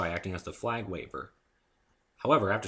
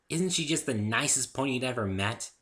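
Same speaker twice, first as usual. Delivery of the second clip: bright eager question; bubbly Pinkie; 5 semitones higher, 3 dB louder than usual. Acted. Pinkie asks Dave about Fluttershy, eager. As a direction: gush about your friend.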